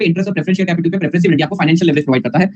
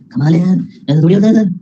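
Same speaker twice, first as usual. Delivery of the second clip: mock student protest. Student objecting to the teacher, in a lightly put-on protesting voice. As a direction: play the student who can't believe it.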